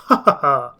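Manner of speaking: a big hammed-up booming laugh. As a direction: exhibitor laughs heartily at the question. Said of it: "he replied with a booming laugh".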